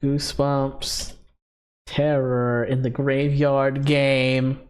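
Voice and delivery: low, slow horror host voice. Acted. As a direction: intone it like a spooky announcer. Repeats ad title spookily.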